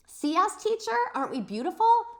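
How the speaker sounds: high, loud bragging; excited girl. Acted. Grace shows her spotty gown to the teacher, excited. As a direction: show off the spots.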